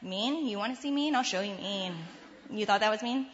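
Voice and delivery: mildly acted bitter challenge; bitter, annoyed retort. Annoyed mother wanting to retort to her son, bitterly. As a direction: throw it back as a mock threat. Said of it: "so annoyed and so bitter".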